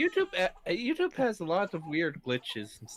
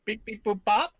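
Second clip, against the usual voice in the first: robot beeps; 9 semitones higher, 5 dB louder than usual. Pretend. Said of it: "still robot".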